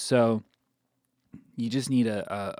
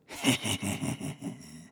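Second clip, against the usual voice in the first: evil laugh; 4 dB quieter than usual. Shown as a demonstration. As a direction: laugh like a villain. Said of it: "which is like an evil sort of laugh".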